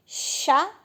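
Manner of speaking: "Chapéu" split into separate syllables with gaps; clearly separated teacher's syllables. Shown as a demonstration. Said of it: "Qual que é a sílaba mais forte?".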